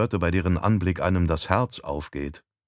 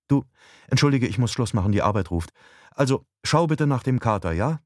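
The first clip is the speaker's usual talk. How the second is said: lightly voiced wife, quick start; a hint of a rushed wife; wife, hurried; 5 semitones higher than usual. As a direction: wind up the call as the wife. Narrator voices wife hurrying off.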